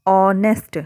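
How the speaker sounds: ऑनेस्ट said with a silent h, opening on "o"; demo pronunciation. Shown as a demonstration. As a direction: say ऑनेस्ट starting straight on the vowel. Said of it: "हम कैसे पढ़ रहे हैं इसे?".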